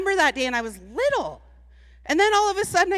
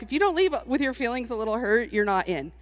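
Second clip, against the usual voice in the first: low, dry family-rule delivery; telling her brother-in-law the family rule, low and dry; deadpan mean; 5 semitones lower, 5 dB quieter, faster than usual. Retold or imitated. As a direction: say it low and dry, a playful threat. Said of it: "And I'm like".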